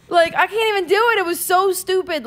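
laughing. Real, not acted. Laughing after failed impression.

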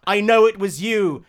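accusing. Acted. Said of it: "pounding her fist on the desk".

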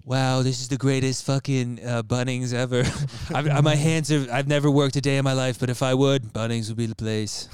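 Trump. Acted. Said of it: "Do Trump, do Trump".

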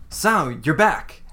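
slow, dry and unimpressed; dry barkeeper. Acted. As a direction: greet him like a weary bartender. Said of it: "she goes".

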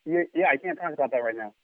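softly, turned away from the mic; hushed side remark to someone nearby; quiet aside. Real, not acted. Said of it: "I'm on the phone".

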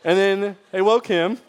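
words carried on a laugh. Real, not acted. Still laughing from the joke.

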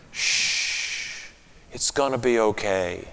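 put-on soft hushed whisper to a crying child; gentle whisper. Shown as a demonstration. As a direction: shush the child gently, almost without voice. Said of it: "just to whisper gently in their ear".

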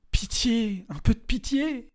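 high, slow broken begging; tearful plea. A narrator's reading. Regina crying for mercy to no one, broken plea. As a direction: plead through tears, to nobody. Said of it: "Elle le murmura sans intention".

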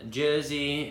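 slow, bad Jersey accent; lightly put-on New Jersey voice. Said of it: "Whatever you just tried to do with Jersey was worse".

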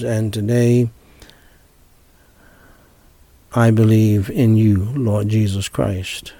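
phrase by phrase with long pauses; short phrases with pauses. Shown as a demonstration. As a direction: lead the prayer in short phrases. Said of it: "Repeat after me, phrase by phrase".

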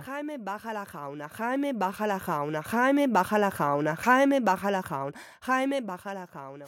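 Jaime baja la jauna with a throaty Spanish j; J drill. Shown as a demonstration. Learner practising the Spanish J sound. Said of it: "The J".

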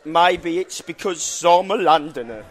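slow, drawn-out Cockney London line; London accent. Shown as a demonstration. Pub owner showing the host, London accent. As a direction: stretch it out like a proud Londoner. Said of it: "teach you the London accent".

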